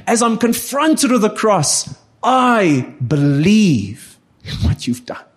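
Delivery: earnest spoken prayer to Jesus, building through a list. Acted. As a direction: pray it out, word after word. Prays aloud in sermon.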